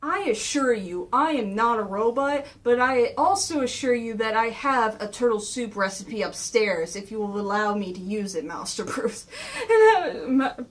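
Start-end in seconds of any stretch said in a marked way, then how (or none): 0.0-9.3 lightly voiced formal butler, lower at the end; measured and courteous, dropping in pitch; Alfred. Butler assuring the boys he is no robot, lightly voiced courtesy. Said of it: "Alfred's going like".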